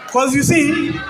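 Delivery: measured love-poem recitation to a crowd; spoken word poem. Acted. Poet addresses his future wife, spoken word recitation. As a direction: declaim it phrase by phrase, letting pauses land.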